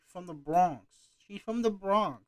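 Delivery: lightly attempted Bronx accent; half-successful Bronx accent, lilting upward; a rapper. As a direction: imitate a Bronx woman's accent, roughly. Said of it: "I'm trying to make her an accent".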